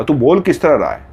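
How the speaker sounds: retold angry retort between friends; mock heated comeback. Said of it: "Zubair ना गुस्से में बोला".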